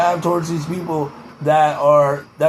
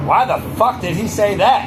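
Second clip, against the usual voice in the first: Mark Wahlberg impression; 2 semitones higher than usual. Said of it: "Mark Wahlberg's like".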